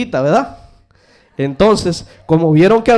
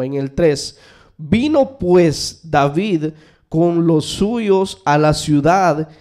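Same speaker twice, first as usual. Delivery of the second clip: slow, measured Bible reading; scripture reading; slower than usual. Acted. Pastor reads Samuel to the church, slow and solemn. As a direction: read each phrase deliberately to the congregation.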